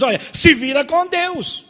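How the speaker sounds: loud, high shove-off; hostile dismissal. Acted. Hostile faith sending a needy person away, loud dismissal. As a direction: throw it at them, loud and hostile. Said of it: "a fé que age com hostilidade".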